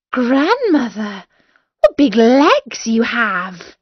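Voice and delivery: put-on a girl marvelling at grandmother, slow; lightly voiced amazed girl; amazed little girl.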